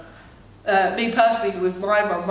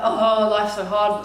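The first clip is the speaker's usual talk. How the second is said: put-on moody teen; 4 dB louder, slower than usual. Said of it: "throwing my arms about".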